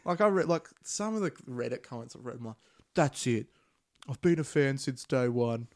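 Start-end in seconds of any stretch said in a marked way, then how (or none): 2.9-5.7 angry fan. Retold or imitated. Mocking angry fans online.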